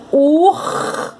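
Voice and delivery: Urso split into a long ur, a gap, then so; syllable by syllable. Shown as a demonstration. Teacher showing pupils the first and second syllables, Urso broken into ur, so. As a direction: draw out the r of Urso, pause, add so. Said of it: "formando a primeira sílaba".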